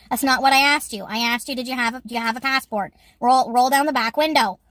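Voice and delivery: imitating a stern border officer; lightly voiced no-nonsense official. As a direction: correct them sternly, as in a retelling. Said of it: "show you how stern she is".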